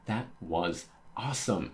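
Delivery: "awesome" given extra emphasis; stress on AWESOME. Acted. Admirer reacts to Luffy's punch, stress on "awesome". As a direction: lean on the word "awesome". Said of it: "Emphasis on awesome".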